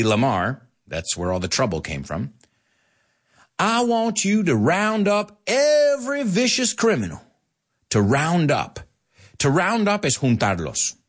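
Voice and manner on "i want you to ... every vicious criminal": high, theatrical order to a henchman; commanding villain. Acted. Hedley orders Taggart to round up criminals, hammed-up command. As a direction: declaim it grandly, pitched well up.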